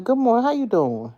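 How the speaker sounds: high, bright singsong hello; cheery greeting. Retold or imitated. Showing how she greets coworkers, high and cheery. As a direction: greet everyone like sunshine. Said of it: "'Cause I'm always".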